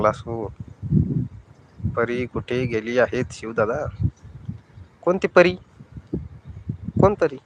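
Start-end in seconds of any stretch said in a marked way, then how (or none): 5.0-7.4 high, startled question; surprised. Real, not acted. Asked about Pari, startled high question. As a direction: act caught off guard.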